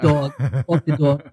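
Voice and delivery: dog said as dawg in a New York accent. Shown as a demonstration. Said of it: "New York accent?".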